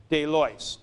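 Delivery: De lois with the accent on the iota, falling; corrected accent. Shown as a demonstration. Teacher correcting the textbook accent for students, falling. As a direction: say De lois with the stress on the i sound. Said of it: "accent over the iota".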